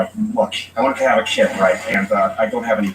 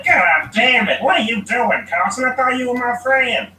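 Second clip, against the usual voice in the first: higher, louder, slow indignant character voice; put-on angry voice; 4 dB louder than usual. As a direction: play an offended guy, pitched way up and drawn out. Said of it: "I do voices all the time".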